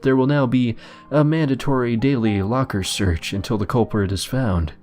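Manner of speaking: a hint of a threatening headmaster; stern principal voice.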